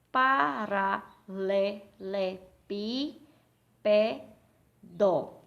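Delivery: very slow PA-RA-LE-LE-PÍ-PE-DO; sílaba por sílaba. Shown as a demonstration. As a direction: sound out all seven syllables with gaps between them. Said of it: "Quantas sílabas tem essa palavra?". (sílaba por sílaba, bem pausado)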